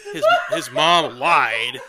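laugh-crying through the words. Real, not acted. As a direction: voice cracking with laughter. Laughing mid-story about Norman Bates.

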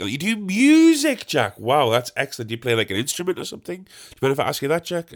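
high-pitched, over-impressed mimicry; impressed gardener. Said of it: "replaced all the mates with Jack".

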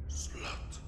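malicious low gravelly whisper. Retold or imitated. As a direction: hiss it in the ear like a demon. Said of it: "it whispered in my ear".

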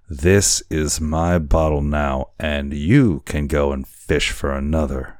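put-on a touch of drunken defiance; drunken cry. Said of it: "he cried again".

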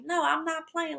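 high, frantic no to the dog; exasperated protest. Retold or imitated. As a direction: shoo the playful dog off. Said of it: "I'm like".

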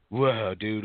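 laid-back surfer dude drawl. Retold or imitated. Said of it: "type of voice".

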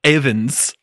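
put-on slow, dubious Welsh accent; mock Welsh accent. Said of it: "if that's a Welsh accent".

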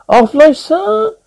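very high, rising query; disdainful. A narrator's reading. Green blur questioning a confused guest, disdainful. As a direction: politely look down on the guest.

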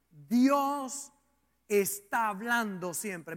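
DIOS drawn out and set apart by a pause; slow, emphatic repeat. Real, not acted. Preacher repeating his key point to listeners, slow and emphatic. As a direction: hold Dios, then finish deliberately.

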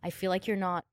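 soft, small confession with pauses; quietly acting out a needy moment; vulnerable. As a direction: drop the volume and admit it hesitantly. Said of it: "feeling really vulnerable".

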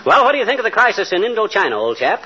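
fast, pompous stage-English small talk; mock English gent. Quizzing Wilcox in a brisk mock English accent. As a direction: rattle it off like a stuffy English clubman. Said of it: "yammering like a stock company Englishman".

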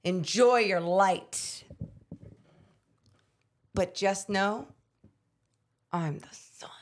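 slow menacing heel promo; drawn out, last words whispered; wrestling heel promo. Pretend. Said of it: "you do that camera".

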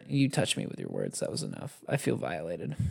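low, soft mock wounded tone; mock hurt. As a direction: play the melodramatic victim.

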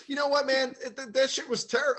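high, loud worked-up outburst; still mad. Real, not acted. Ranting about an old teacher, still mad. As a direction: burst out, pitched well up. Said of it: "I'm still mad about it".

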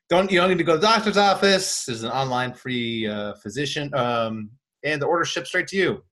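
mock podcast ad read, pitching the product. Host to listeners, a casual ad read. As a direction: read it like a sponsor spot.

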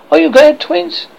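high, loud bright asking; rising excitement at each boy; eager question. A narrator's reading. Wendy polling the boys.

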